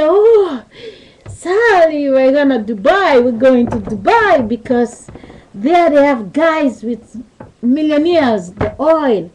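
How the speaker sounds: a touch of hammed-up excitement; excited gushing girlfriend. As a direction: mimic a thrilled girlfriend dreaming of Dubai. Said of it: "She never talks like that".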